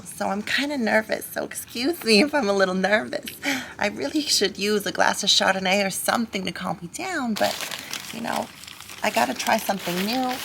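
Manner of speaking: nervous suburban mom filming her first video; chatty cartoon housewife impression; Lois Griffin. Lois welcoming viewers to her pumpkin carving, chatty cartoon-mom voice.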